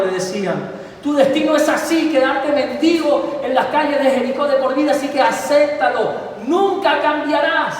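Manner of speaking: crush him with contempt; crowd taunting. Acted. Crowd voiced taunting Bartimeo. (la multitud se burla de Bartimeo con desprecio)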